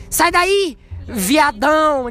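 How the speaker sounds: mock pitch-side yell; mock football taunt. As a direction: jeer like a pickup-game player, stretching viadão. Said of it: "ninguém fala assim".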